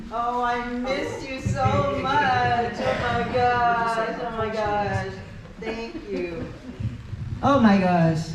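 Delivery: slow, delighted oh my gosh; pleasantly surprised. Real, not acted. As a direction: gasp with happy surprise. Welcomed back, delighted.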